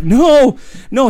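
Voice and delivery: loud, high, drawn-out denial; horrified cry. Acted. He realizes what he did, loud horrified cry. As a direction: wail it in acted dread.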